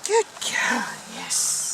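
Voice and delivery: squeaky praising a dog. Real, not acted. Praising puppy.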